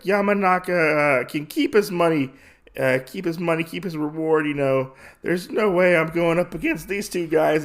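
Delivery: high-pitched informant backing out; lightly acted alarm, wanting no part of it; mock nervous refusal.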